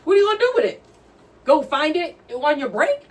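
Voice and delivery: high, fast and half laughing in disbelief; mock the clerk with laughing scorn; retold inner rant, rising and laughing; incredulous. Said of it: "I'm thinking".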